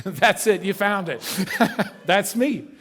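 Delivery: words laughed out; chuckling through it; laughing. Real, not acted. Preacher laughing with the congregation.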